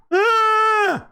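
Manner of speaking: shouted high goat bleat. Retold or imitated. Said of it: "That's what they sound like".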